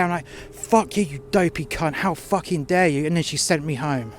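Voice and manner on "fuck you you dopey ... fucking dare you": angry swearing. Retold or imitated. Worker cursing the manager to her face, angry. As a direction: spit the insults at her.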